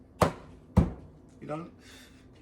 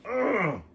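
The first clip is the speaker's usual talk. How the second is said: choked-up groan; 10 semitones higher, 5 dB louder than usual. Real, not acted. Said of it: "Crying already".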